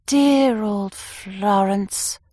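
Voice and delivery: slow, dreamy and wistful; sentimental murmur. Acted. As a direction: linger over it like a fond memory. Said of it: "I murmured sentimentally".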